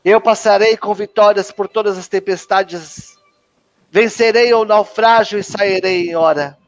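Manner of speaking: formal prayer declaration; declaração de fé. Acted. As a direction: declare it steadily to a congregation. Declaração de fé evangélica. (declaração de fé solene)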